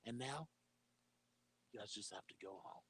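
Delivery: a hushed, lightly voiced Trump sending his fans home; Donald Trump impression. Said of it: "It's amazing how much you sound and look like him".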